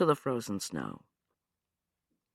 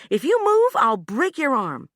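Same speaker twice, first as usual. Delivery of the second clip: menacing threat; 12 semitones higher, 7 dB louder than usual. Acted.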